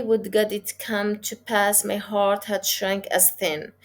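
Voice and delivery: one flowing phrase with no pause, carried across the line break; teacher reading the line as one unbroken phrase; read straight through. Shown as a demonstration. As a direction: run the line on without stopping. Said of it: "I didn't find the pause at the end of the line".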